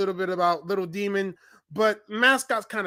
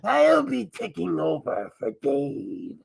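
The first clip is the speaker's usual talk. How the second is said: lightly voiced masked alter ego, playful; a mischievous mask character hijacking the channel; Mascot persona voice. Masked Mascot taking over Dave's channel, mischievous. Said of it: "I'm not Dave. I'm Mascot".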